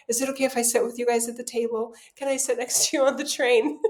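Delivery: rushed, needy pleading at a brisk pace; hammed-up insecure asking. Mother on vacation, asking to tag along, rushed and needy. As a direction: rattle off the requests like an anxious kid. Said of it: "I'm exaggerating for just effect".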